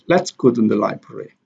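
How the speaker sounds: "Let's go" stressed, "library" trailing lightly; library unstressed. Shown as a demonstration. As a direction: put the weight on "Let's go", none on "library". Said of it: "Library here is not stress".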